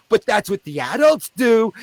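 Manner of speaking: high mock-insistent clown; clown insisting. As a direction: argue back like the clown. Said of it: "And I go".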